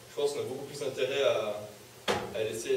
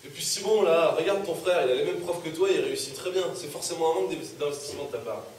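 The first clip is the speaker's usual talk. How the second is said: mildly angry, louder parental reproach; scolding; 3 semitones higher, 5 dB louder than usual. Acted. Father compares Simon with his brother, scolding. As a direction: press the point with rising irritation.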